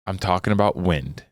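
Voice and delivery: heavy stress on "wind", falling at the end; deliberate pause before it, then land on "wind"; emphatic quote delivery. Retold or imitated. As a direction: drop onto "wind" for emphasis. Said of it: "It's the way I said it".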